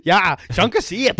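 shouted fake German; mock German accent. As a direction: bellow it like a cartoon German, high and loud.

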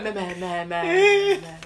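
stuck repeating one word in bursts; imitated stutter. Mimicking Tommy's stuttering friend, word repeated over and over. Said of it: "used to stutter real bad".

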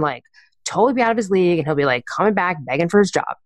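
mildly exasperated venting; imitating an annoyed boss running someone down; frustrated. Boss venting about an assistant who quit, mildly frustrated. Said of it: "she was very frustrated".

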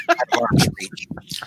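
high, slow breathy laugh through words. Real, not acted. Joking while moving the snacks away.

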